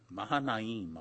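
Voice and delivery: Mahanaim with its syllables sounded out evenly; accented name. Shown as a demonstration. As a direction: say Mahanaim with a relished accent, at normal volume. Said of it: "I like that accent on that one".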